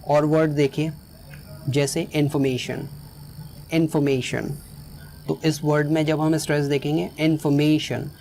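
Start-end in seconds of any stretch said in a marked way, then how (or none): 2.1-4.5 "इन्फॉर्मेशन" with the weight on "मे"; stress on MAY. Shown as a demonstration. Teacher models "इन्फॉर्मेशन", stress on "मे". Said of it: "ये ए है". 7.2-8.1 "इन्फॉर्मेशन" with the weight on "मे"; stress on MAY. Shown as a demonstration. Teacher shows where "इन्फॉर्मेशन" is stressed, on "मे". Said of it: "यहाँ stress है".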